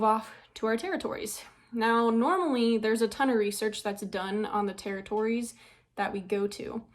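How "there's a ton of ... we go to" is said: out of breath. Real, not acted. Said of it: "I'm, like, breathing really heavy".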